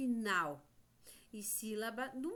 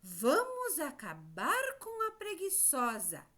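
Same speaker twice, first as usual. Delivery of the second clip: higher, lightly acted storybook exclamation; cicada's rallying cry; 4 semitones higher, 3 dB louder than usual. Teacher repeating the cicada's line as a quiz, lightly acted rallying cry. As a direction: quote it as a mild rallying cry. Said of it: "Foi a cigarra".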